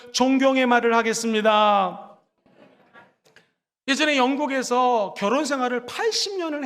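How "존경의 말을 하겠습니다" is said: slow, deliberate phrase for the congregation to repeat; spoken slowly, as a model line; slow lead line. Shown as a demonstration. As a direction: say it slowly so they can follow. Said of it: "따라해볼까요?".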